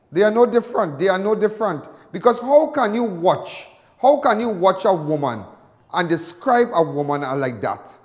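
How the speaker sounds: indignant. Real, not acted. Outraged on-air rant.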